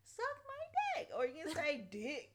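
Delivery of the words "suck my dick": tough guy line. Shown as a demonstration. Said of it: "you be like".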